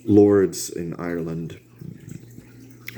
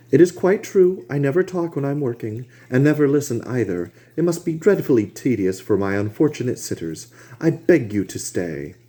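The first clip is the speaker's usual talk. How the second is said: higher-voiced painter urging a friend to stay; Hallward pleading; 7 semitones higher than usual. A narrator's reading. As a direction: coax Harry to stay, insistent. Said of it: "said Hallward".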